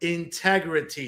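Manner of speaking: every syllable of "integrity" sounded out, slow and deliberate. Pronouncing a word slowly for people who struggle with it: slow, deliberate 'integrity'. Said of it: "I'm going to pronounce it slowly for you".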